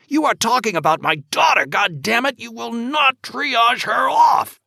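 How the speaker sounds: furious shout. Acted. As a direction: roar it at the doctor. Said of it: "John shouted".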